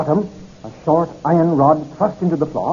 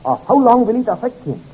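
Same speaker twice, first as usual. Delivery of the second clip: questioning; 7 semitones higher, 3 dB louder than usual. Acted.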